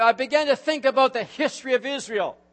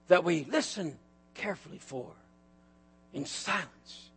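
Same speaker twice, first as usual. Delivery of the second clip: fading much softer and lower into silence; hushed still voice; 7 semitones lower, 11 dB quieter than usual. Real, not acted. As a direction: let it die away to nothing. Describing the still small voice.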